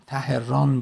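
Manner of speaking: تهران drawn out slowly as ta-he-rân; split root pronunciation. Shown as a demonstration. Teacher breaking a city name into its roots, split pronunciation. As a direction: say تهران in three beats, ta-he-RAN. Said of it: "ران کوه بگیریم".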